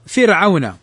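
thin ر in فرعون; careful model word, فرعون with a light ر. Shown as a demonstration. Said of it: "رققت".

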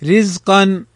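رزقا with a light, thin r. Shown as a demonstration. Teacher models رزقا for the rule, thin ra. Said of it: "رققت نحو".

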